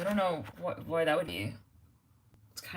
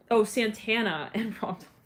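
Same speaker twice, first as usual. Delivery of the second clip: ordinary talk, nothing marked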